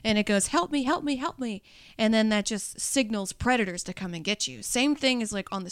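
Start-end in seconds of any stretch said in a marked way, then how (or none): 0.5-1.6 a mildly panicked little plea; lightly voiced cry for help; mock panicked bait. Hooked bait pleading as it freaks out, mock panic. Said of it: "it freaks out".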